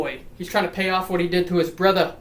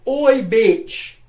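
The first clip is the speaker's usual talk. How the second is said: louder, higher "oi" shout; mock call-out; 5 semitones higher, 6 dB louder than usual. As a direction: call out brashly in a put-on voice. Acted call-out in mock British.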